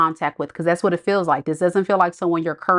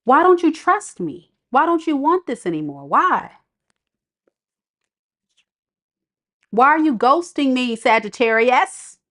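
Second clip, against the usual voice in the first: high, pleading upset questions; getting upset; 6 semitones higher than usual. Acted. Ex-partner demanding why Sagittarius pulled back, upset. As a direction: plead higher and higher, hurt and annoyed. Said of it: "see how my voice started getting a little upset".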